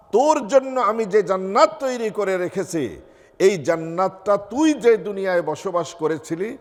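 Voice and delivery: high-pitched, emphatic rebuke; acted scolding. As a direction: drive each point home in a mildly scolding voice. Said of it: "ধমক দিয়ে বলবেন".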